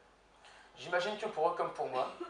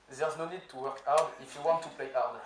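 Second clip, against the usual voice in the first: slow, deliberate French-accented English, a little louder; slow English line in a French speaker's English accent; 4 dB louder than usual. Shown as a demonstration. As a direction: say it slowly in a self-mocking English accent. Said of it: "pardonnez mon accent anglais".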